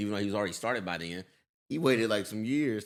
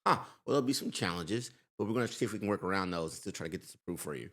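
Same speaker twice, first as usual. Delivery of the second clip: formal banker; 4 semitones lower, 6 dB quieter, faster than usual. Retold or imitated. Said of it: "You think your banker would go".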